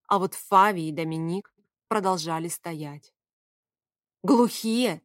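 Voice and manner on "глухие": louder angry outburst; angry snap. A narrator's reading. Heroine snaps at the two who stay, loud and angry. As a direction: bite the word off in fury. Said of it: "разозлилась я".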